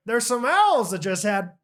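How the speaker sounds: slow, lightly voiced neighbor; a hint of the neighbor, drawn out; slow, lightly voiced neighbor talking about owls; terrible impersonation. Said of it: "I'm doing a terrible impersonation".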